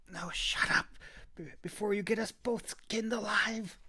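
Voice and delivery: urgent breathy whisper; hissed whisper. A narrator's reading. Kita whispering fiercely at the Clove. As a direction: hush him without a sound. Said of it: "she hissed".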